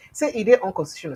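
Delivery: said through hiccups. Real, not acted. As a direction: hiccup while speaking. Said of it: "Sorry, I'm hiccuping".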